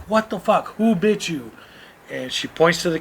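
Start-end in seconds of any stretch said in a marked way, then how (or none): 0.1-1.5 higher-pitched indignant demand; retold outrage. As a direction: demand answers, voice raised in pitch. Retold outrage at niece's bite.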